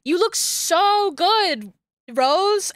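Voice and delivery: mocking the characters' flattery; mock gushing. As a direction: mimic the fawning compliment. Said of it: "they're like".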